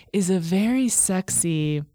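slow, lingering sultry delivery; playful sultry tease. Pretend. Host plugging a friend's erotic podcast, playfully sultry.

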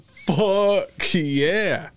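high, drawn-out mock cheer; acted excitement. Joker acting out seeing an ocean of whales, high excited cheer.

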